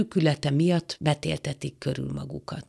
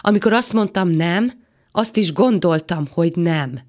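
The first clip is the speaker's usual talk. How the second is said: raised, insistent voice; firm angry refusal; 2 semitones higher, 4 dB louder than usual. Acted. Woman refuses the man in a quarrel, insistent. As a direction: press the refusal home, louder.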